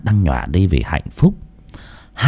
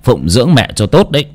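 a hint of an old man clicking his tongue in praise; lightly voiced old man praising; faster than usual. Old man praising the boy, lightly voiced. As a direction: praise the boy warmly, fatherly. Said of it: "xoa xoa đầu thằng bé mà tấm tắc".

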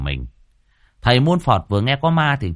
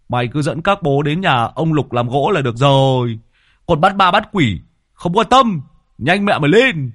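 higher and louder, rising to a bark; brash thug Lâm Sẹo; 5 semitones higher, 5 dB louder than usual. A narrator's reading. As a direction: order them around impatiently.

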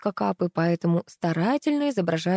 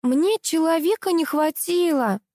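high, slow indignant cry; shouting; 10 semitones higher, 3 dB louder than usual. A narrator's reading. Contestant protests to the director, shrill cry. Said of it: "закричала конкурсантка".

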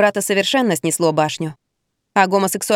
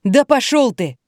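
higher snarling retort; 4 semitones higher, slower than usual. A narrator's reading. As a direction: snap back in spite. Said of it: "окрысился сын".

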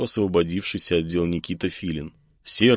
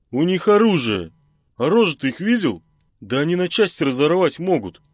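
high, loud heated protest; 9 semitones higher, 4 dB louder than usual. Acted. Genka rattled after the ambush, heated. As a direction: shout him down, rattled. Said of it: "Ещё больше завёлся Генка".

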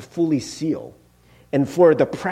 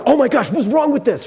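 higher-pitched impatient fretting; 5 semitones higher than usual. Retold or imitated. Cook waiting on the Instant Pot, getting impatient. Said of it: "I was getting impatient".

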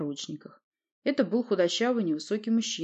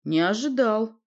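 higher, louder note of surprise; surprised; 4 semitones higher, 6 dB louder, slower than usual. A narrator's reading. Prince in shackles to the newcomer, surprised. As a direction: say it as if caught off guard. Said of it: "удивлённо промямлил князь".

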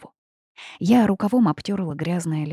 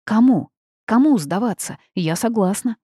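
a loud eager call, higher in pitch; calls out into the dark, higher and louder; shouting; 4 semitones higher, 6 dB louder than usual. A narrator's reading. Heroine shouts to the unseen wolves, eager to surrender. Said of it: "крикнула".

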